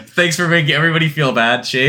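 talking through laughter; amused, laughing scolding. Real, not acted. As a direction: tease a friend while cracking up. Ribbing the co-host while laughing.

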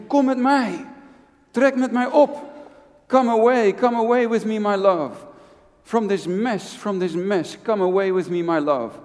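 pleading call of Jesus to his listeners; voice of the Lord. Acted. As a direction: call them gently but fervently, as the Lord. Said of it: "En hij zegt".

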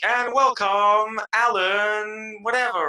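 high, drawn-out announcer welcome; hyped host introduction. Retold or imitated. Guest imitating a podcast host welcoming a guest, hyped announcer. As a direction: imitate a host's big, slow build-up. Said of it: "And then you're like".

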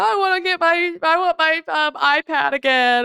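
a hint of a fussy toddler asking; whiny child. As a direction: mimic a toddler begging at night. Parent voices whining child's demands.

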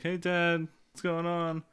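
perky little daughter voice; child to dad. Acted. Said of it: "she goes to Cody".

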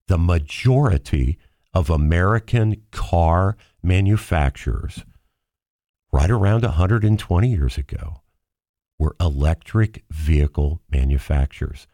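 slow, each word spelled out; over enunciating. Shown as a demonstration. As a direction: spell it out slowly, condescending. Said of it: "let me say this very slowly for our impaired listeners".

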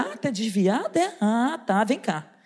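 low, cocky mock confidence; newly emboldened. Salesman gaining nerve over the backslider, cocky. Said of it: "Aí eu cresci".

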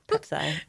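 "Pepsi" as a quiet PEP-sigh; child's mispronunciation. Retold or imitated. Parent echoing six-year-old, mispronouncing "Pepsi" as PEP-sigh. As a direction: softly end "Pepsi" like "sigh". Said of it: "My six-year-old calls Pepsi".

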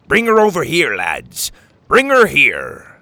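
loud, high captain's command; barked order. A narrator's reading. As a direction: call the crew from afar. Captain orders crew outside.

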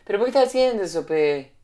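lightly hammed Peruvian accent with pe; Peruvian friend imitation. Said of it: "yo tenía un amigo peruano que decía".

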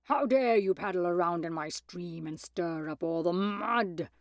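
bold, scolding wolf voice; fearless shout. A narrator's reading. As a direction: call it out as an indignant wolf. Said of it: "he shouted fearlessly".

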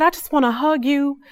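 moved woman gushing. Retold or imitated. Woman hurries from her car to thank Shantae, high and gushing. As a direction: pour it out like a grateful fan. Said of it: "She said".

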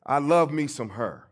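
loud, punchy Tennessee vernacular; Tennessee talk. Retold or imitated. Great-grandson borrowing her Tennessee talk, down-home and emphatic. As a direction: lean into "love" in Tennessee speech. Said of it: "kinda talk like how she used to talk".

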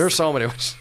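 put-on old Hollywood Mid-Atlantic voice; clipped glamorous old-film star; Mid-Atlantic accent. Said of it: "the Mid-Atlantic accent".

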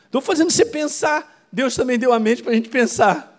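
preaching loud. Real, not acted. Preacher pressing the point.

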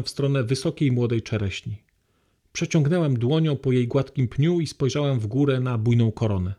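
a calm reading from a novel, paced evenly; story reading. Acted. Lecturer reads a novel passage to the hall, calm and even.

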